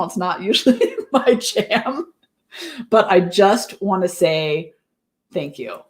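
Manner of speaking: slowed, with a small laugh, the thanks dropping very soft; emotional. Real, not acted. Live host thanking her viewers, softly emotional. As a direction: let the gratitude catch you off guard. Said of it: "getting all, like, soft and gushy and emotional".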